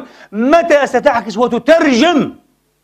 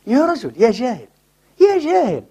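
rising in disbelief at an ignorant man; exasperated scolding. Real, not acted. Preacher scolding an ignorant sheikh, exasperated and rising.

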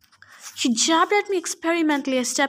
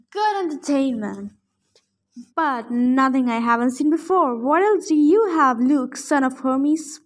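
big booming giant voice; giant's booming voice; 4 dB louder than usual. Acted. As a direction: boom it out like a bored giant. Sumo dude Antaeus speaks.

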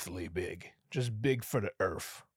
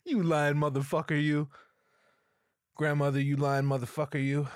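louder, higher mock shouting; mock outrage; 4 semitones higher, 5 dB louder than usual. Comedian yelling at his late grandma's lie, mock outrage. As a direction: yell it in fake outrage, laughing.

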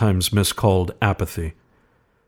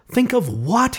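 puzzled question. A narrator's reading. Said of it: "he questioned".

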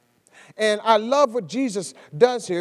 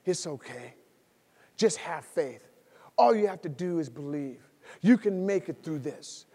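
reassuring coach; 2 semitones lower than usual. Retold or imitated. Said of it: "Jesus begins to coach him".

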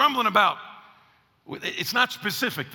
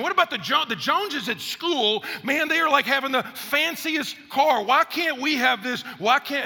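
put-on whiny kid; 6 semitones higher than usual. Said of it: "Another one chimes in".

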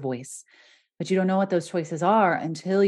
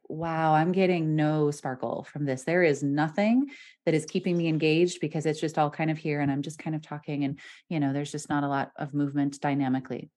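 monotone imitation; 3 semitones lower, 3 dB quieter than usual. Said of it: "they reduced their pitch range".

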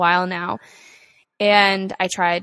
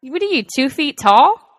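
mock scolding; 6 semitones higher, 7 dB louder than usual.

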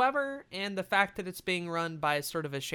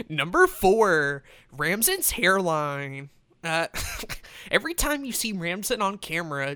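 hyped gamer bro; 2 semitones higher than usual. Pretend. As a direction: play the hyped gamer host. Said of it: "let me do like a gamer voice".

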